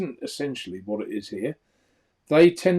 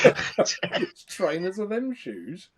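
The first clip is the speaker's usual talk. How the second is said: put-on Welsh accent; 6 semitones higher, much slower than usual. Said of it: "It's a famous Welsh take".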